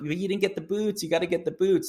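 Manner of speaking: squeaky mock insistence; asking a stranger to reshoot, in a high playful coax. Coaxing photographer to get the boots.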